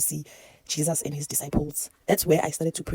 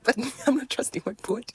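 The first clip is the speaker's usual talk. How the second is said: whisper; 7 semitones higher than usual. Real, not acted. Laughing aside about self-talk.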